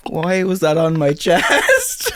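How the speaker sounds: slow, laughing question; amused disbelief at himself; drawn-out laughing why. Real, not acted.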